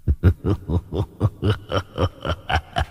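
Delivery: low, faint sinister laugh; evil cackle. A narrator's reading. Demon guard mocking, evil cackle. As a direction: chuckle like a demon. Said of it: "cười sằng sặc".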